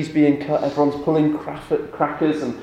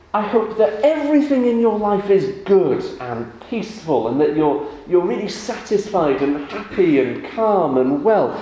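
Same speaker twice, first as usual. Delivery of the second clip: kind wish; 4 semitones higher than usual. Retold or imitated. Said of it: "it meant".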